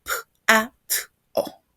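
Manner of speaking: "P, A, T, O" said as four separate sounds, each cut off cleanly; lightly voiced child segmenting "P, A, T, O"; sounding out phonemes. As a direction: split "pato" into its single sounds, one at a time, like a small girl. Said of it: "invita a una niña a descubrir los sonidos de la palabra pato y la niña dice".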